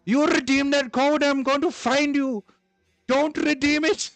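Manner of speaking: high, loud, frantic yelling; shouting. Real, not acted. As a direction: yell at chat to stop. Pleading with chat, laughing.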